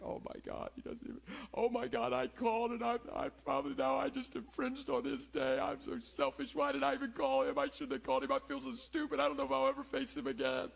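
high, distressed voice of a rejected caller; panicked self-blame. Retold or imitated. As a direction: spiral into anxious, tearful self-reproach. Voicing fragile rejected caller.

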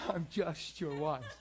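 a laughing, slowed-down imitation of the wife; laughing mock wife. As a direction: repeat her line slowly through a laugh. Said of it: "She's like".

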